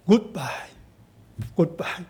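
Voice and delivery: quiet, understated retold goodbye; soft farewell. Daughter-in-law parting from her mother-in-law, soft farewell. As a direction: say a goodbye softly, letting it fade.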